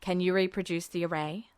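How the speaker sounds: low, hushed officer's voice; Mustang voiced low. A narrator's reading. Mustang quietly questions Edward, low and hushed. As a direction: keep it low and secretive.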